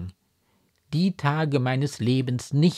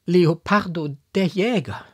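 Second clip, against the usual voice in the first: higher, louder cry of disbelief; shocked exclamation; 7 semitones higher, 6 dB louder than usual. A narrator's reading. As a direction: exclaim the name in dismay. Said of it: "rief die Marquise". (entsetzt ausrufend)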